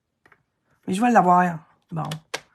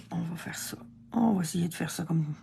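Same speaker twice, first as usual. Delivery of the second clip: whispered to herself before a careful cut; 2 semitones lower, 6 dB quieter than usual. Real, not acted. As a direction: whisper it, focused.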